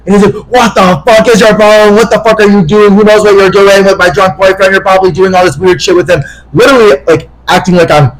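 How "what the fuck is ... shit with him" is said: raised-pitch imitation of a jealous rant; mock indignant tirade; angry accusation. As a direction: act out the boyfriend accusing, pitch easing down toward the end. Acting boyfriend's repeated angry accusations.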